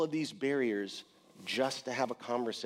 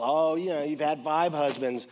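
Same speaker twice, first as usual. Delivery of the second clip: mocking tone; 3 semitones higher, 5 dB louder than usual. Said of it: "hypocrites that talk about".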